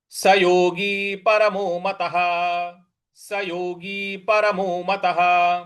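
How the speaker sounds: slow recital, मतः ending in ह; Sanskrit recitation. Shown as a demonstration. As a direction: recite like a teacher. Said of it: "इस प्रकार से बोलेंगे". (धीमा संस्कृत पाठ)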